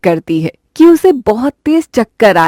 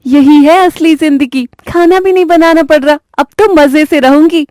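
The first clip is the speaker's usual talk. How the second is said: gloating bride; 6 semitones higher than usual. Acted. Reema gloating.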